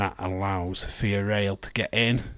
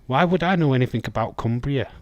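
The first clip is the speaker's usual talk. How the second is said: faster and louder, playfully defensive; mock indignant; 3 semitones higher, 5 dB louder, faster than usual. Real, not acted. To chat, indignant about knowing Cumbria. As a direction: protest it with a grin in the voice.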